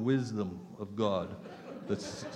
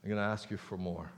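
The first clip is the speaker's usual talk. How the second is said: voicing God; 5 semitones lower, 8 dB quieter than usual. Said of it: "And then God says".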